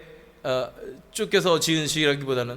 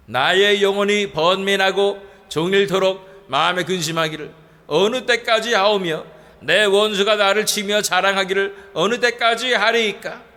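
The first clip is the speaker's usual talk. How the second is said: scripture reading. Shown as a demonstration. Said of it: "이 절 말씀입니다".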